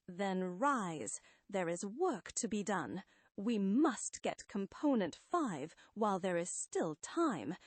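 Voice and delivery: lightly voiced haughty villain; imperious Psycho Man. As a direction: lecture them like a supreme tyrant.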